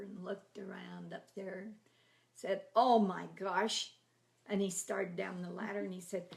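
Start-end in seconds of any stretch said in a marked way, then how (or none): 2.8-3.9 amazed gasp. Retold or imitated. Brother finds treasure in attic.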